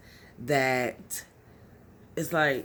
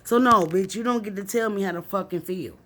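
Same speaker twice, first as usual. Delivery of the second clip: louder and higher, fast defiant jab; real defiance, louder and higher; defiant anger; 4 semitones higher, 3 dB louder than usual. Real, not acted. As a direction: throw it back at the critics. Defiant at critics.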